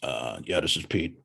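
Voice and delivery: monotone voice. Shown as a demonstration. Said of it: "answer the phone in a monotone voice".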